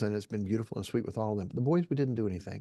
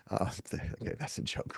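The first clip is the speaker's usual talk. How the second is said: laughing it off; 7 dB quieter than usual. Real, not acted. Laughs at his own joke.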